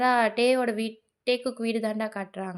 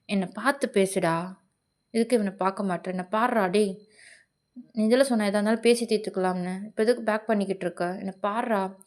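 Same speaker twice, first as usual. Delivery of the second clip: stern, confronting a singer; faster than usual. Acted.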